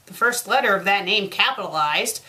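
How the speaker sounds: ordinary talk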